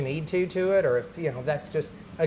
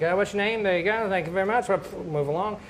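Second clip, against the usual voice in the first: mock hurried autograph signer, slightly raised pitch; brisk brush-off; 4 semitones higher than usual. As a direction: rattle it off to keep the line moving. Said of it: "He wasn't just".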